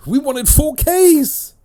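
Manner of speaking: high, drawn-out mock complaint; exaggerated squealing protest, rising in volume; disgruntled listeners. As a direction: wail it like cheated fans. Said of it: "A lot of people are thinking".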